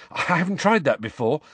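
high, flustered nervous apology; rushed worried reassurance. A narrator's reading. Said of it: "he added nervously".

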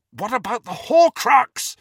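loud, high demanding shout. A narrator's reading. Harry shouts at Ron about the Horcrux, loud. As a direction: shout to snap them back to the task. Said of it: "Harry shouted".

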